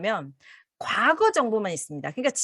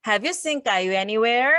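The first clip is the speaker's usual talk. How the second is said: "Have you seen 까유 anywhere" again very slowly, rising; slow drill for learners; slow repeat; much slower than usual. Shown as a demonstration. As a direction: lead the repetition calmly. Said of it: "한 번 더요".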